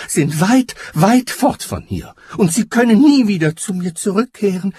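high, loud lament; despairing giant's cry. A narrator's reading. Giant mourning his faraway friends, high despairing cry. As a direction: cry out high, certain that all hope is lost. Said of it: "rief der Scheinriese".

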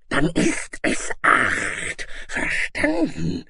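high, slow, harsh monster command; drawn-out bullying dragon; snarling dragon. A narrator's reading. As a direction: snarl it out as a final order. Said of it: "fauchte der Drache".

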